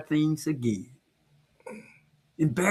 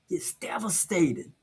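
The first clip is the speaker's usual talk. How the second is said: hushed whisper; a real whisper; 7 dB quieter than usual. Real, not acted. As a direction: drop to a whisper on it. Heavy talk about embarrassment.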